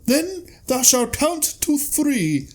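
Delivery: high, slow liturgical recital; solemn scripture reading. Retold or imitated. A monk reading the grenade instructions, high slow intoning.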